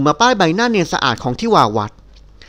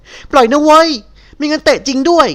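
much higher, loud, curt yell of annoyance; harsh angry shout; 9 semitones higher, 4 dB louder, slower than usual. Acted. Nilda yells at the man pinning her, higher and loud. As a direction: bark the threat, fed up and furious. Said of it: "น้ำเสียงกระด้างห้วนสั้นตะโกนก้องอย่างขัดใจ".

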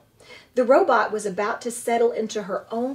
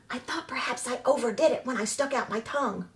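softening; 2 semitones higher, 4 dB quieter, faster than usual. Acted. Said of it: "voice seemed to be softening".

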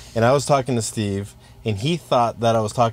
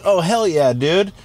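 higher, eager put-on voice; Poopies; 6 semitones higher, slower than usual. Poopies answers an unknown number, eager and clueless. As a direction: imitate a friend keenly agreeing, then clueless. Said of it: "He's like".

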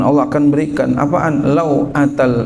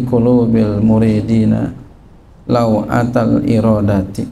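Arabic text recitation; 3 semitones lower than usual. Acted. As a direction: intone the Arabic like reading from a kitab. Reads Arabic text before translating.

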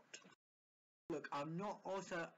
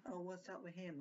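careless nurse take. Shown as a demonstration. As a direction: throw the question away as if bored. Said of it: "Not like".

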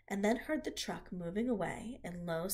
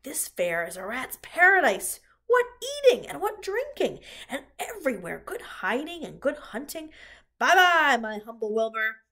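gleeful rat; 2 semitones higher, 10 dB louder than usual. Acted. Templeton gloats to Charlotte and Wilbur, loud gleeful rat. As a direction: crow about the feast ahead.

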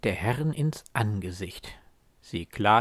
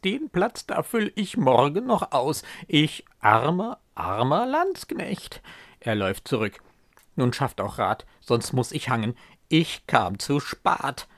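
alarmed soldier; 3 semitones higher, 4 dB louder than usual. Acted. Soldier panics at empty gallows.

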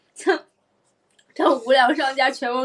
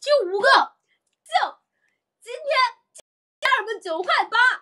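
much higher, hammed-up sales host; hard sell ad; 12 semitones higher than usual. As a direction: shriek the price like a hype seller. Friend mocks livestream sales host. (夸张带货主播腔)

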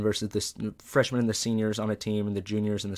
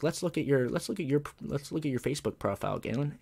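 lightly voiced principal, pitched up; hint of teasing principal; 6 semitones higher than usual. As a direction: imitate a principal starting an inspection. Voicing principal moving on.

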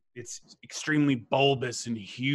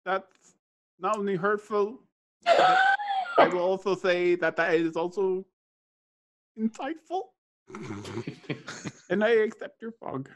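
beholder voice; 9 semitones higher than usual. Acted.

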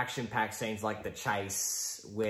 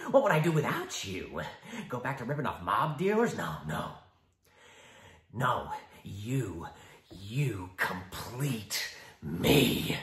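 Joker; 3 dB louder than usual. Acted. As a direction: tease him. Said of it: "the Joker".

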